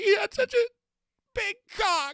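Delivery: mock teary, blubbering sobbing voice, very high. Retelling a retired player's locker room story he told while crying: imitating someone crying. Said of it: "now he's crying during it".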